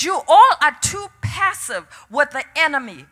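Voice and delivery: firm, emphatic divine rebuke, lightly voiced; preacher quoting God with conviction; the Lord's rebuke. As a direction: declare the verdict to the whole congregation. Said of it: "He said".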